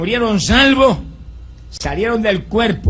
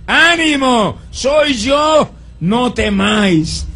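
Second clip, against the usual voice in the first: high, loud call across the water; 6 semitones higher, 4 dB louder, much slower than usual. Retold or imitated. Jesus calls to the frightened disciples, loud call. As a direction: shout reassurance over the storm. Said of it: "tuvo que gritarle".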